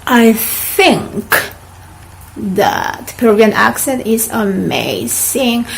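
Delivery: "think" with a soft TH, calm model reading; soft th sentence. Shown as a demonstration. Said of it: "one more time".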